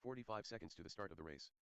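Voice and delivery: far off PA. Real, not acted. Distant PA announcer.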